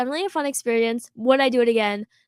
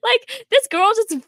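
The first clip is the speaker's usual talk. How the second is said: retold outrage; 10 semitones higher, 5 dB louder than usual. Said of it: "and I was like".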